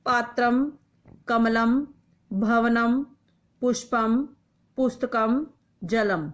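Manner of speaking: each Sanskrit word said slowly and distinctly with its final म, like फलम and द्वारम; clear recitation. Shown as a demonstration. Teacher to pupils, word list read out for practice, clearly enunciated. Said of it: "उच्चारणम कुरुत".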